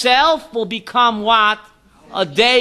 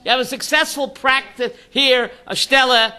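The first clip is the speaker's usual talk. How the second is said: incredulous Shliach; 3 semitones higher than usual. Retold or imitated. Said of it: "The Shliach told him".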